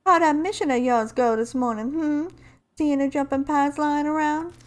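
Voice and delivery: lightly voiced game heroine; a hint of an amateur character accent; Lifeline impression. Lifeline confronting Bangalore with a letter, lightly in character. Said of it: "trying to do my best Lifeline impression".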